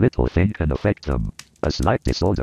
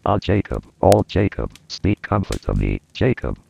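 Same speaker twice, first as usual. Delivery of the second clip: pleading; 3 semitones higher than usual. Acted. Scrooge pleads with the ghost.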